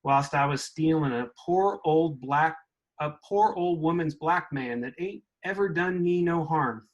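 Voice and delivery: put-on reading aloud in a light mid-Southern accent; mid-Southern accent, like the speaker's grandparents talked. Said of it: "I'm gonna read it in, in that mid-Southern accent".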